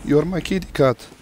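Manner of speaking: high, slow mock plea; mock pleading. Calling after Simon who left, mock pleading. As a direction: plead as if heartbroken.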